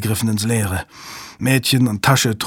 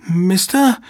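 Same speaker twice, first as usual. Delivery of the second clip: higher, trembling call; shaky breathless pleading; 9 semitones higher than usual. A narrator's reading. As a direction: call out with a shaking voice. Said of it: "rief sie mit bebender Stimme".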